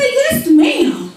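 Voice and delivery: put-on very high, sweet little girl; butter-wouldn't-melt child voice; innocent child. Girl answering teacher, high and innocent.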